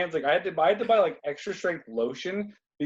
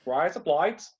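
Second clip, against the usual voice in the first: Australian accent; slower than usual. Shown as a demonstration. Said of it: "in Australian".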